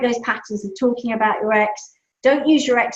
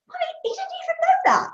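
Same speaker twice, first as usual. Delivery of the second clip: put-on much higher little boy's voice; child's voice; faster than usual. Son telling mum the news, squeaky and amazed. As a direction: play the astonished small son. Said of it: "He goes".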